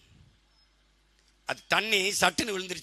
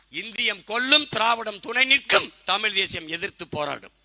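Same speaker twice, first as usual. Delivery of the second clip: loud, raised political chant; slogan declamation; 3 semitones higher, 5 dB louder than usual. Real, not acted. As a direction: pound out each charge for the crowd. (ஆவேச கோஷம்)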